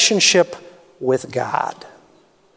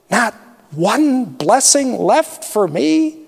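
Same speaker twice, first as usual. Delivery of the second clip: pleading; 4 semitones higher, slower than usual. Acted. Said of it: "Esau pleaded".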